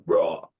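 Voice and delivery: low, rough "raw" noise; imitated growl. Describing the master's wild hair, imitated growl. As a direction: growl it as a sound effect.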